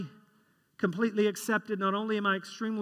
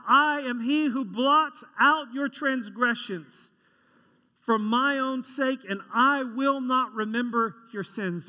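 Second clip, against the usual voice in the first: scripture reading; 3 semitones higher, slower than usual. Acted. Reading Isaiah verse.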